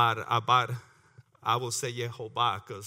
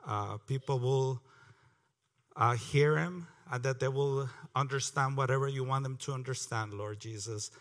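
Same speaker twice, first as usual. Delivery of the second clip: prayer; 2 semitones lower than usual. Real, not acted. Opening prayer before the Bible reading.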